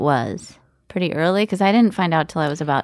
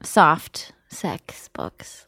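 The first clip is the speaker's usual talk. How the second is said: hushed aside, no voice at all; whisper; 10 semitones lower, 4 dB quieter, much slower than usual. Real, not acted. Friend whispering the naughty part, whisper. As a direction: breathe it like a secret. Aside about racy books.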